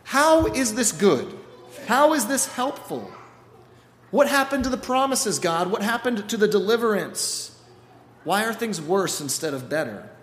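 loud, high, exasperated complaint; upset Moses. Acted. Moses complains to God, loud and exasperated. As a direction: demand answers, voice climbing. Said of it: "That Moses is like".

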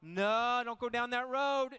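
lightly voiced finger-wagging grandma; a hint of a scolding grandma; mock scolding grandma. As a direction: wag your finger and tut like a grandma. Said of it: "Your grandma ever wagged her finger at you".

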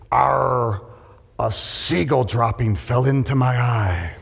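slow, lightly voiced pirate; drawn-out pirate growl. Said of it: "He said".

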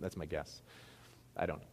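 usual speaking voice

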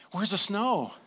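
high, loud eager question; eager elf. Retold or imitated. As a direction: bounce with excitement. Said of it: "And he's like".

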